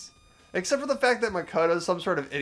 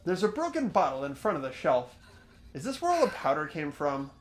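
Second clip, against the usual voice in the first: measured reading with lively rises on key words; story narration. Acted. Player reading the game's inner monologue aloud, expressive narration. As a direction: read out the character's thoughts deliberately.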